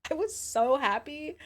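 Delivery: high, slow gushing; gleeful high sing-song; squealed happy. Real, not acted. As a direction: stretch it out high and giddy. Repeating happy line, squealed.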